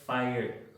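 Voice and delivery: "fire" said as fai-er; fire with schwa. Shown as a demonstration. Teacher struggling to say it, "fire" coming out as fai-er. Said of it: "me cuesta trabajo decirlo".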